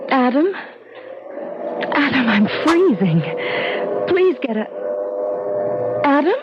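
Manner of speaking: rising panic as she calls his name; a wife shaking her unresponsive husband, anxious calling; worried calling. Acted. Wife can't wake husband.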